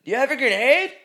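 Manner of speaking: high bro-voice question; mock soldier bro. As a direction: ask again, slightly fed up. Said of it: "Kid would be like".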